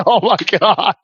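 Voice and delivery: high, laugh-filled exclamation; laughing disbelief. Retold or imitated. Driver seeing the man tied to a sign, laughing disbelief. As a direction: squeeze it out through laughter. Retold reaction, laughing at absurd sight.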